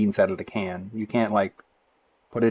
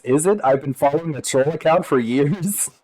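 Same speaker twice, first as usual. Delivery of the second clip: mock surprise; 5 semitones higher than usual. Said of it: "the guy says".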